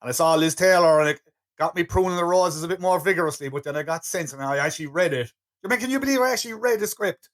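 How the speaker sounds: lightly voiced actor spinning a yarn; put-on anecdote voice, rising into mock disbelief; Kane telling an anecdote. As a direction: lightly play the actor marvelling at himself. Acts out Kane telling a story.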